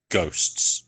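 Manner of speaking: low, hushed in-character murmur; very quiet. Acted. Adele turns to a companion in secret, very quiet. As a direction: say it very quietly, almost whispered. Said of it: "says, very quietly".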